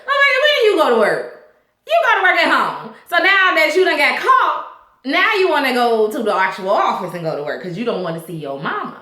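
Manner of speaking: a lightly voiced mom catching her son lying; mock scolding mother. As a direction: call him out like a fed-up mother.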